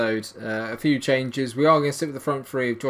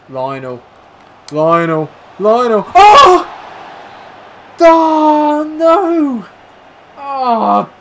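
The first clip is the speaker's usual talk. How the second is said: name called louder and higher, then a loud anguished cry; rising anticipation then anguish; 14 semitones higher, 16 dB louder, much slower than usual. Real, not acted. Watching Lionel through on goal, building to anguish. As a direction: build it up, then let it crash.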